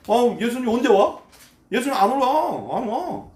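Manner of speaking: sarcastic, exasperated jeer; sneering. Acted. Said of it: "비아냥거리고".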